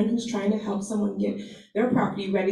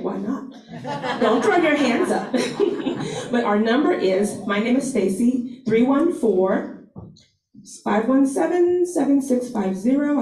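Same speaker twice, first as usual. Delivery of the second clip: laughing; 3 semitones higher than usual. Real, not acted. Laughing while teasing Todd.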